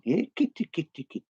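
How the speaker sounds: high, sing-song call; imitating the sergeant. Yellow Submarine sergeant calling kitty, high sing-song. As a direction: call it like a cartoon policeman. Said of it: "You go going".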